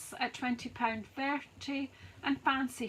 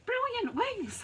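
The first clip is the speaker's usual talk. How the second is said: out of breath; 12 semitones higher than usual. Real, not acted. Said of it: "I'm no breath left".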